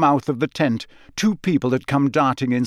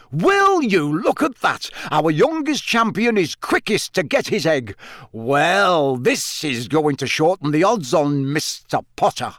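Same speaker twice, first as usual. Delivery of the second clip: excited yelling; 3 semitones higher than usual. A narrator's reading. Bagman commentating on the youngest champion's egg, excited yelling. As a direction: announce it to the crowd in a mild yell. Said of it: "Bagman was yelling".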